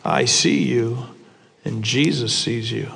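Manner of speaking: a creepy disembodied voice in the dark; parrot voice. Acted. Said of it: "he hears a voice behind him that says".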